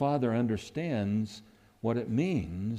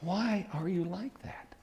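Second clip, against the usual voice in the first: whispered question; 7 semitones higher, 8 dB quieter than usual. Retold or imitated. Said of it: "And the psalmist goes".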